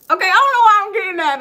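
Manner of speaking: high, loud, fast laughing aside; giggly disbelief. Real, not acted. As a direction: laugh at her own intuition. Surprised by her own message.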